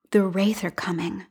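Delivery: an unvoiced whisper of the warning; echoed whisper. Tayla echoing her mother's warning in a whisper. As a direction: breathe it like an echo in her mind. The phrase resonates in her mind.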